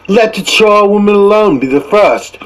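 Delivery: put-on high, cackling old woman's cry; charwoman crying out. Charwoman hails her cronies, high and brazen. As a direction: crow it out like a brazen old char. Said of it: "cried she who entered first".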